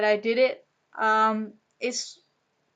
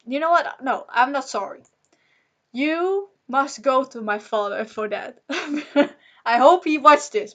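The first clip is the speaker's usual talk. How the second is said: louder and higher, daring him to watch; defiant anger; 3 semitones higher, 5 dB louder than usual. Real, not acted. Vlogger addressing her father through the camera, defiant. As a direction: fling it at the absent father. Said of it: "I just was really angry".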